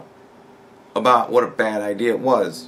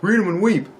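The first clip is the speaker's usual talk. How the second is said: higher, cocky taunting quote; mock arrogance; 7 semitones higher than usual. Vlogger quoting a flat-earther's smug sign-off, mock arrogant. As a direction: imitate a smug arguer. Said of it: "say something fucking arrogant as fuck like".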